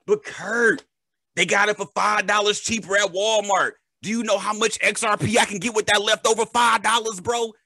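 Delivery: high, pleading bro voice; whiny bro voice. Retold or imitated. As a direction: play the cheapskate bro. Voices cheapskate buyer.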